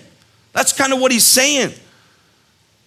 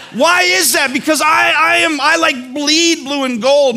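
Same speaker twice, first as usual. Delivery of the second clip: fired up; 4 semitones higher than usual. Real, not acted. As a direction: boast about being a lifelong fan. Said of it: "lost my mind".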